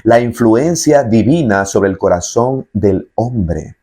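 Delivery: slow, weighty "influencia divina"; slow emphatic definition. Shown as a demonstration. Preacher defining grace slowly so listeners remember. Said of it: "escuche bien lo que es la gracia".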